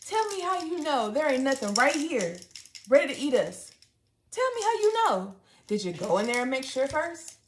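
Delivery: high, insistent challenge; frantic demand. Retold or imitated. Challenging sister about sea creatures, high insistent demand. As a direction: demand proof like it's life or death. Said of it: "I said".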